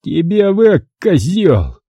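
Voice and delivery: lightly voiced irritated thug. A narrator's reading. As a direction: snap an insult. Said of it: "раздражённо назвал адрес".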